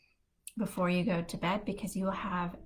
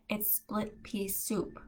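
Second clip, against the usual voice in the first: slowly spelled-out correction, a bit softer; mild retold correction; 3 semitones higher, 5 dB quieter, slower than usual. Mom leans in to correct grandma, slow and quieter. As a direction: correct her slowly, word by word.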